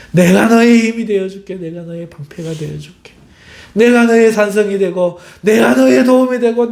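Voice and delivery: fervent promise, each phrase starting strong; loving God's reassurance. Acted. God answering the crying believer, fervent reassurance. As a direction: build from tender assurance to an emphatic vow. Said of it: "하나님이 이렇게 해주시면".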